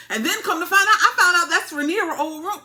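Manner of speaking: high, loud laughing reveal; real gleeful laughter; laughing excitedly. Real, not acted. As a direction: laugh it out, scandalized. Laughing while revealing gossip.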